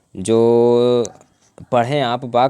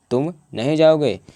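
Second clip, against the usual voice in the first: raised pitch, pause after तुम, then नहीं pressed; stress on नहीं; 4 semitones higher than usual. Shown as a demonstration. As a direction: set तुम apart and lean on नहीं. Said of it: "नहीं पर जोर पड़ रहा है". ("नहीं" पर ज़ोर, ऊँचे सुर में)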